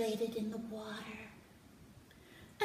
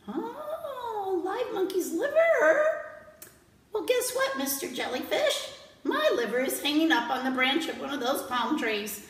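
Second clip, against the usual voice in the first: high, louder monkey voice; sly monkey; 4 semitones higher, 5 dB louder than usual. Acted. Monkey tricks the jellyfish, high and sly. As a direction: trick him with fake innocence.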